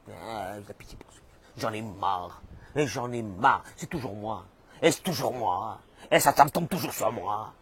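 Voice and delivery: mild mock self-pitying grumble; complainte lasse. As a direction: grumble low and weary, playing the complainer. Mimics a weary self-pitying complainer. (ronchonnement plaintif et las, joué)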